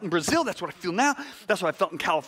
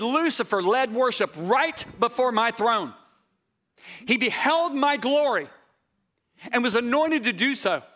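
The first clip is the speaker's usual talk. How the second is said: solemn divine pronouncement; 2 semitones higher than usual. Retold or imitated. Preacher relaying the Holy Spirit's words on glory, solemn. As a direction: proclaim it weightily, falling at each close.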